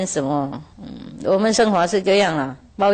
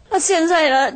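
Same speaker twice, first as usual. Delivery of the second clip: farmer's voice pitched higher, whining to his master; complaining farmer; 6 semitones higher than usual. Retold or imitated. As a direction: whine it up high like a fed-up farmer. (农夫向师父诉苦，抬高嗓门抱怨)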